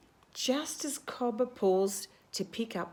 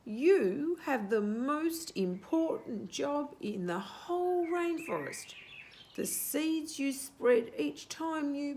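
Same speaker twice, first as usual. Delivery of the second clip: wise owl voice; 6 semitones higher than usual. Acted. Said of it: "in her wisest voice".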